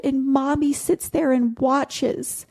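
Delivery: a hint of a young girl confiding; imitating a little girl. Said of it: "And she said".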